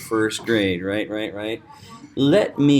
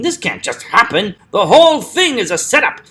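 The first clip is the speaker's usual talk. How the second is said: high, loud protest with "whole thing" punched; outraged acted cry, "whole thing" hit hard; stress on WHOLE THING; 9 semitones higher, 8 dB louder than usual. Shown as a demonstration. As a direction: hammer "whole thing", pitched way up. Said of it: "So whole thing, he stresses".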